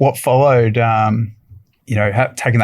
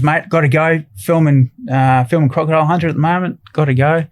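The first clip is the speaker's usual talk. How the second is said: higher, brisk Steve Irwin; imitating Steve; 4 semitones higher than usual. Retelling Steve rushing back to filming, lightly voiced. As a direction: hurry off like Steve. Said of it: "he goes".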